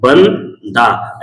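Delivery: बंदा said very slowly, ending on a long open aa; slow teaching model of बंदा with a silent final h; drawn-out demo word. Shown as a demonstration. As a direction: stretch out बंदा so the final ह sounds like अलिफ aa. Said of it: "बंदा को अगर आप हिंदी में लिखते हैं".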